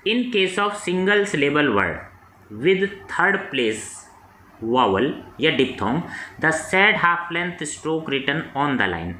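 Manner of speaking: slow, measured dictation of a rule; slow rule reading. Acted. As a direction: spell out the textbook rule word by word. Reads rule text slowly.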